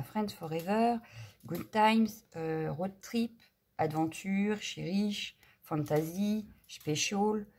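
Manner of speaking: English words in a thick French accent; real French-accented English; bad English accent. Real, not acted. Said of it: "avec, euh, mon accent anglais pourri".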